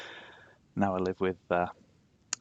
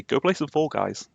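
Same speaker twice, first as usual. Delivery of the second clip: quoting Danny; 6 semitones higher than usual. Retold or imitated. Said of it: "as Danny would say".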